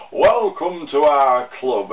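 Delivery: very slow, hammed-up Sheffield football manager; rubbishy Sheffield accent. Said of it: "Sorry for the rubbishy Sheffield accent".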